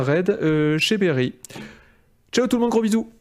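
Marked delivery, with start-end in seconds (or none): 2.3-3.1 high singsong farewell; cheery goodbye. Real, not acted. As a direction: sing out the goodbye. Sign-off to chat. (au revoir joyeux et chantant)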